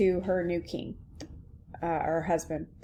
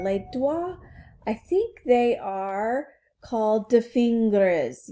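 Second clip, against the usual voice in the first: put-on slow, amateurish French-accented English; 3 dB louder than usual. Princess and Alice practising English words, French accent. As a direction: act a language lesson in a rough French accent. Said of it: "hear this in a French accent".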